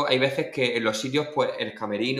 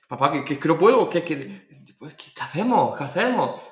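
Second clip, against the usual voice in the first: higher-pitched urgent pleading; comic flustered desperation; retold panic; 3 semitones higher, 3 dB louder than usual. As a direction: plead frantically, stumbling over repeated words. Acts out panicked plea to father.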